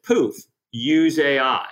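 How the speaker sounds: sales pitch voice. Retold or imitated. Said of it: "the sales pitch".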